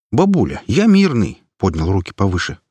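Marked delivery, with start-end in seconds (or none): 0.1-1.4 mock plea. Hero raises hands, pleading.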